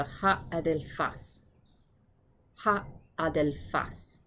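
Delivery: slow "adelfas", weight on FAS; accent on last syllable. Shown as a demonstration. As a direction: model a-del-FAS slowly. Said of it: "the accent is there".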